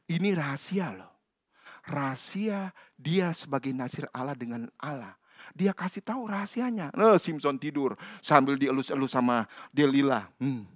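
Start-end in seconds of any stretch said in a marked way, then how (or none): none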